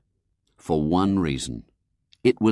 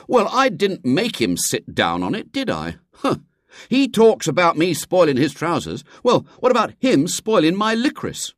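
much higher, louder aggrieved rant; indignant boy; 10 semitones higher, 4 dB louder than usual. Acted. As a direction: protest hotly at the unfairness. William indignant at brother.

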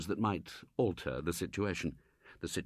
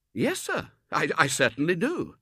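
higher, stammering denial; protesting youth; 8 semitones higher, 6 dB louder than usual. Acted. Robert voiced.

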